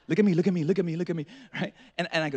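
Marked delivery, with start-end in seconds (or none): 0.1-1.3 lightly acted steadying dad; imitating calm reassurance. Calms bleeding son in story.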